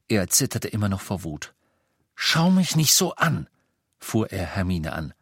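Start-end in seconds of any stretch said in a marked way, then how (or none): 2.1-3.5 high, loud snap; snapping. A narrator's reading. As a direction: snap at her. Harry snaps at Hermine. (Harry fährt Hermine wütend an)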